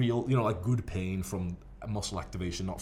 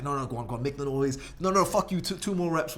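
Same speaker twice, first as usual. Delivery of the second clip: high, loud mock yell at a training partner; hyped gym yell; 6 semitones higher, 3 dB louder than usual. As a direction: push him on, laughing. Egging on partner mid-set.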